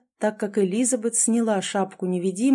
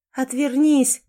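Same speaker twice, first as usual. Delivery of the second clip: sharp raised order, higher pitched; firm command; 5 semitones higher, 4 dB louder, slower than usual. A narrator's reading. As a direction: order him to turn away. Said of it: "в два голоса велели ему девушки". (повелительно, повышенным голосом)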